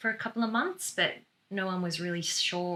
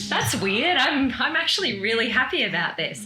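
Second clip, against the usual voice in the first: sarcastic; 5 semitones higher, 5 dB louder than usual. Retold or imitated. Sarcastic retort, laughing.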